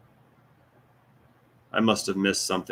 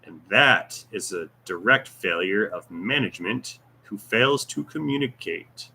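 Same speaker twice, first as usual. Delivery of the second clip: put-on Russian accent, swinging pitch. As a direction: do a deliberate mock Russian voice. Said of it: "I cannot do Russian accent voice".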